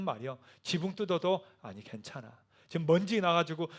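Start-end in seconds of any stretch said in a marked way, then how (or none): 1.6-2.4 soft reassurance. Acted.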